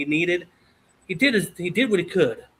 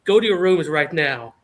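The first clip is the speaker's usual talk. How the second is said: retold fatherly command, louder; stern dad order; 5 dB louder than usual. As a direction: send the kids off firmly.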